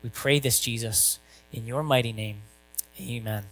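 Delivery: hushed pastoral prayer. Acted. Opening prayer before sermon.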